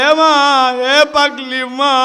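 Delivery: loud, drawn-out call to mother; pleading cry. Acted. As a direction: stretch the plea out slowly. Child at mother's feet.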